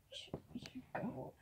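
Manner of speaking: very soft, slow whisper; hushed, voiceless warning; whispered aside. Pretend. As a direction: whisper it under the breath. Younger sailor mutters to party.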